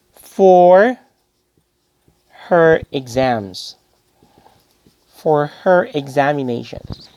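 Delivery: each word spaced out, very slow; slow board dictation. Shown as a demonstration. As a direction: read it slowly for the class to copy. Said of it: "So you can say".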